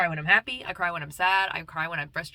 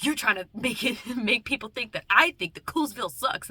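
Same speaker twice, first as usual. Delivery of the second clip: Fred; 4 semitones higher than usual. Retold or imitated. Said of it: "When he was like".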